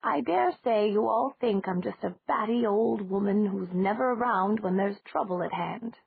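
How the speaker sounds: lightly voiced old lady, unhurried; a slight lift for the elderly landlady; old lady speaking slowly. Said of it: "Then she said slowly".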